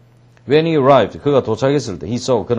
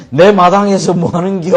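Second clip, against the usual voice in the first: loud, raised giant roar; dinosaur-like roar; 7 semitones higher, 7 dB louder than usual. Acted. Giant catching children in his yard, roaring. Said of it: "공룡 소리가 나겠죠".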